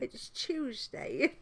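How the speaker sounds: slow lisped "Tuesday" as "tʃuzteɪ"; lisping British "Tuesday"; British accent. Retold or imitated. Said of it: "imitating them".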